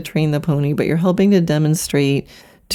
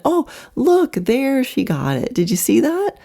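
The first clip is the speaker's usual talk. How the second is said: put-on excited teacher to child; 7 semitones higher than usual. Acted riding teacher spots success for child.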